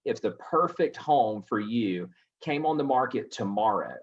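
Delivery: slow line with "perfect" emphasized; deliberate weight on "perfect", unhurried to the end; stress on perfect. Shown as a demonstration. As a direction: pick out "perfect" in a measured sales script. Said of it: "emphasis on the word perfect".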